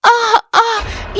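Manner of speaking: long, high cries of burning pain; drawn-out yelps of pain. Acted. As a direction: cry out slowly as the hot tongs burn. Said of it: "Ananya चिल्लाने लगती है".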